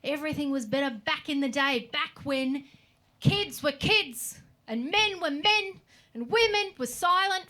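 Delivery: a hint of a nostalgic oldie ranting; mock old-timer. Old people going on about the old days, lightly mocked whinge. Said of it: "They're always saying shit like".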